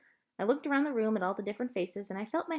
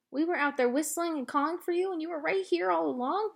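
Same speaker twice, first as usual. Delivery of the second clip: joyful relief; 8 semitones higher than usual. A narrator's reading. Girl relieved dog found.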